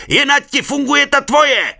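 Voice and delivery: loud high yelled retort; shout back. A narrator's reading. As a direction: fling it back at full voice. Shouted reply across water.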